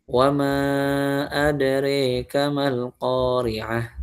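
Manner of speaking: adreka recited very slowly, the a leaning to e; slow Quran recitation. Shown as a demonstration. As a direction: chant it slowly like tilawah. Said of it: "Seperti itu".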